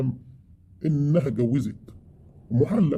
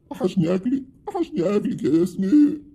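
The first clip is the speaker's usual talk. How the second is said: higher, laughing through the words; husband laughing to his wife; 7 semitones higher than usual. Acted. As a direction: chuckle as you say it. Husband laughs, misses wife's cooking.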